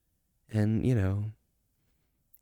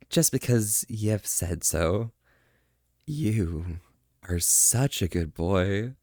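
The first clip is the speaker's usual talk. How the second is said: soft voice; 2 semitones lower, slower than usual. Real, not acted. Streamer praising a viewer called Primal, softly and slowly. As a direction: coo the praise gently and slowly. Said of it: "I have a soft voice".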